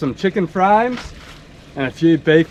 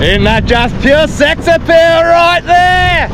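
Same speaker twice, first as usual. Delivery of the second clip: mock sultry admiration; 10 semitones higher, slower than usual. Showing off his boat, joking.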